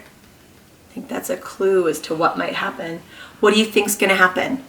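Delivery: lively picture-book read-aloud; reading to children. Acted. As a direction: read to a class of small kids. Reads picture book to class.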